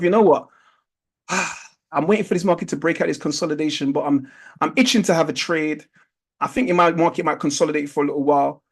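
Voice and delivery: soft, low inner voice of a waiting trader; muttered private thought. Retold or imitated. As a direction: think it quietly to yourself. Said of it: "you think to yourself".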